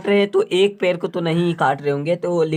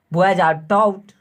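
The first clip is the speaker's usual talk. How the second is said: slow dictation; much slower than usual. Shown as a demonstration. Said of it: "dictating answer slowly".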